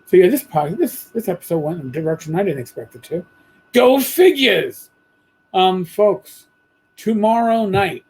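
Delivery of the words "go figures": higher, slow, wry "go figure"; wry exclamation. Real, not acted. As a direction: toss it off with mock surprise. Wry remark on a derailed episode.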